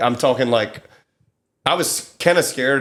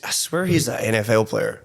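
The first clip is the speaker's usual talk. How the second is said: hushed whisper. Real, not acted. Gossiping about a famous guest.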